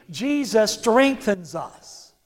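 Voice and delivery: slow, with "strengthens" stressed and a falling end; slow emphatic declaration. Shown as a demonstration. Preacher leading the church to repeat, slow and stressed. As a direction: lean hard on "strengthens", let it fall. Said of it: "Say it one more time".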